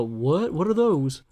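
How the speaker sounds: mock French accent, outraged and puzzled. An imagined viewer scoffs at the beds in a mock French accent. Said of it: "I'm using my French voice".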